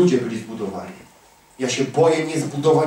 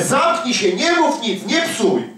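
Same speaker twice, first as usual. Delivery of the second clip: retold shout; 8 semitones higher, slower than usual. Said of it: "On krzyczał".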